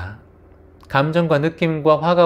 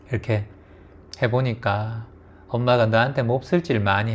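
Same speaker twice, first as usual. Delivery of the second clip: apologizing mother; 2 semitones lower, 4 dB quieter than usual. Retold or imitated. Aging mother apologizing to her grown daughter, softly remorseful. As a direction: gently ask a grown daughter's forgiveness. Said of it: "그래서 다 잊어버렸다 하더라도".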